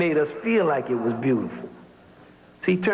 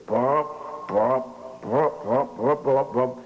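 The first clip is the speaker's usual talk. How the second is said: imitating trombone; 2 semitones lower, much slower than usual. Teacher showing the trombone player his part. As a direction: pop out trombone notes. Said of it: "He says".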